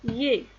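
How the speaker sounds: "yé" as one gliding syllable; son isolé. Shown as a demonstration. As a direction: model the sound "yé". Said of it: "vous avez le son". (« yé » isolé pour les élèves)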